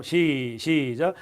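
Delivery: usual speaking voice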